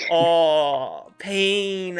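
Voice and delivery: hammed-up whimper over a sad joke; a touch of a cry, played for laughs; mock crying. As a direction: fake a sob on pain. Mock heartbreak at tragic line.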